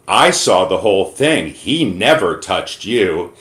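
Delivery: slow, drawn-out mock sincerity; sarcastic tone. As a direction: play innocent while clearly lying. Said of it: "in a very sarcastic tone".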